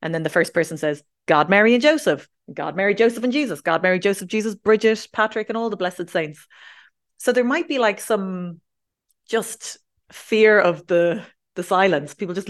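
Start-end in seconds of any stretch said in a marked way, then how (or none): 1.3-6.5 tag. Acted. Acted one-upping exchange of blessings.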